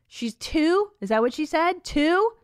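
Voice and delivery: shocked she can't believe it; incredulous. Real, not acted. Host shocked at child's age.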